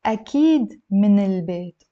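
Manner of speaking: measured, word-by-word Arabic model; said slowly. Shown as a demonstration. Teacher repeating the answer for students, slowly. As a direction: space the words out for learners. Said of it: "Let me say it slowly".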